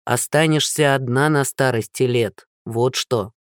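low, dark prophecy of doom; ominous Cassandra. Acted. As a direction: foretell her lonely old age. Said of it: "с интонацией зловещей Кассандры".

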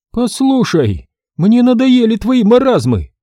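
гневный крик, голос выше и громче; вскипи от злости; гневно. Acted. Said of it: "Вновь разгневалась Парфёнова". (Парфёнова гневно кричит на мастера)

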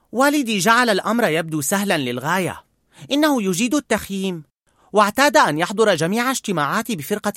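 put-on a boy remembering happy times; young boy voice, fond memories. A narrator's reading. Boy tells old man about ice cream with dad, fond.

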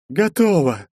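exhaled. A narrator's reading. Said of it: "выдохнула Олеса".

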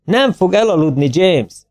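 magasabb hangon felcsattanó, visszafogott kiáltás; zengő üvöltés. A narrator's reading. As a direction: felolvasott üvöltés, teljes hangerő nélkül. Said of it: "A zengő üvöltés a kocsi irányából hallatszott". (emelt hangú, mérsékelt kiabálás)

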